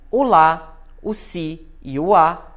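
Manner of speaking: LÁ, SI and A punched in "o lá, o si e o a"; teacher isolating each strong syllable, "lá" loudest; stressed syllables picked out. Shown as a demonstration. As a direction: land firmly on "lá", "si" and "a". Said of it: "são os mais fortes".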